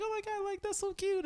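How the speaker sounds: very high, soft gushing; imitated cooing. Host seeing his Batman pajamas, imitated cooing. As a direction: coo over it in a mock girly pitch.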